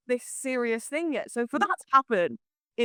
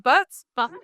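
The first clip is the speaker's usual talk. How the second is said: mock Welsh; 4 semitones higher, 5 dB louder than usual.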